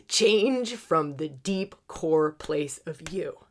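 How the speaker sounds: lightly voiced cosmic command, words stretched; planets demanding change. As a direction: press the demand on key words. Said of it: "pointing at the conscious self and going".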